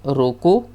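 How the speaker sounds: रोको drawn out, then a stop; pause after रोको. Shown as a demonstration. Teacher marking the punctuation, pause after रोको. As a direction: say रोको slowly and halt. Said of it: "विराम चिन्ह".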